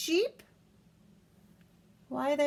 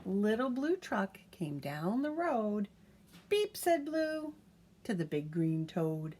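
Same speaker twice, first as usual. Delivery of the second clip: lively picture-book reading; reading to a child; 2 semitones lower than usual. A narrator's reading. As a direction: read it aloud to a toddler, bouncy and clear. Reads picture book aloud.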